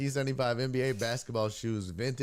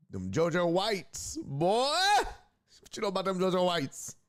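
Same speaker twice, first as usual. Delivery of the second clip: raspy, rough smoker's voice; smoker's rasp; 9 semitones higher, 3 dB louder than usual. Real, not acted. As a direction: talk through a smoker's rasp. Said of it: "I sound like I got a smoker's cough".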